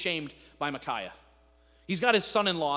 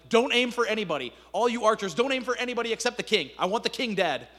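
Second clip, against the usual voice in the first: louder commander's orders; barking orders; 4 semitones higher, 4 dB louder than usual. Retold or imitated. The Aramean commander orders his archers to aim only at the king.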